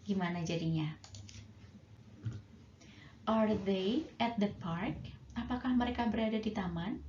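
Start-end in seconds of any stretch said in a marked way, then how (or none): 3.3-5.0 slow model question. Shown as a demonstration. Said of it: "yes, no questions ya".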